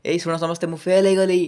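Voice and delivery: high, loud mock announcement; mock rising tone. Teacher mocking a failed student announcing failure, high excited rising tone. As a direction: proclaim it to everyone, absurdly upbeat. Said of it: "ଏମିତି କହିବ?".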